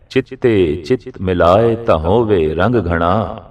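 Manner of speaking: slow, even scripture line; verse recitation. Acted. Preacher cites Guru Arjan's saying, slow recitation. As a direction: quote the sacred line without hurry.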